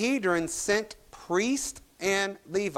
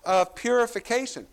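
puzzled onlookers; 4 semitones higher than usual. Retold or imitated. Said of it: "And they're like".

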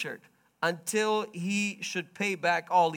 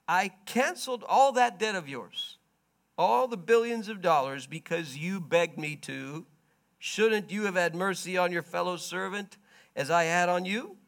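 angry rebuke; 3 semitones higher, 4 dB louder than usual. Acted. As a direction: scold the wicked servant. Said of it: "In anger".

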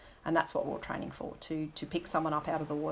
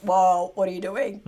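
startled whoa; 7 dB louder than usual. Retold or imitated. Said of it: "and I just went".

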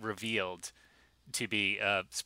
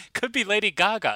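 mocking a judge; 11 semitones higher, 8 dB louder than usual. Mocking judges' clueless guess.

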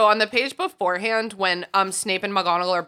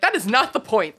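laughing exasperation; 4 semitones higher, 3 dB louder than usual. Retold or imitated. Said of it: "And I'm like".

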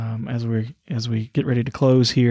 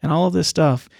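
pitched up, proudly listing good deeds to Jesus; boastful believer; 4 semitones higher than usual. Retold or imitated. Christians before Jesus at judgment, boasting in a higher voice. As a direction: show off every deed like a child wanting praise. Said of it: "they're gonna say".

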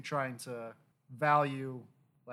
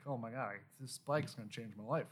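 brainwashed fan; 3 semitones lower, 6 dB quieter than usual. Retold or imitated. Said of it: "brainwashed by this company thinking".

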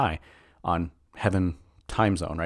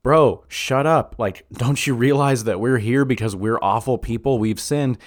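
scolding thief; 4 semitones higher, 4 dB louder than usual. Retold or imitated. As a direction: tell the other guy off, exasperated. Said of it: "the other thief is like".

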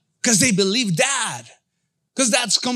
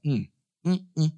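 low murmured mm of sudden understanding; lightly voiced knowing nod; aha moment; 4 semitones lower than usual. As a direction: hum along like it just clicked. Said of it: "like an aha moment".

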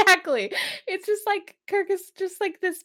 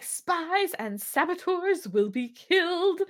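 slow, higher, stern villain voice; menacing captain voice; 5 semitones higher, slower than usual. Retold or imitated. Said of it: "So he's like".

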